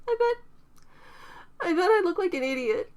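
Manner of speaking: put-on a self-conscious young woman, mortified; lightly voiced young woman near tears; embarrassed young woman. A narrator's reading.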